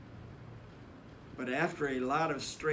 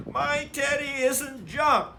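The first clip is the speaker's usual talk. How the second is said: put-on loud, much higher child's protest; screaming; 10 semitones higher, 7 dB louder than usual. A narrator's reading. Sister protesting to Mama, high loud scream. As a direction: wail it like a child defending her teddy. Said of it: "screamed sister".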